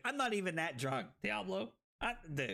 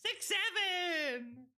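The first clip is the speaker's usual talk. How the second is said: laughing; 10 semitones higher, much slower than usual. Real, not acted. Laughing at the number.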